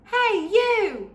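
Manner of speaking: high and loud call at the ogre; bold shout. Acted. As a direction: shout to catch his attention. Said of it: "shouted Flynn".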